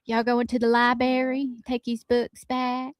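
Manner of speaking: mama voice. Retold or imitated. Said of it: "sound like your mama".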